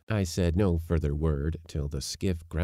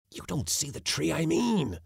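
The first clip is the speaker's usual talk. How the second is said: put-on old uncle voice; 11 semitones higher than usual.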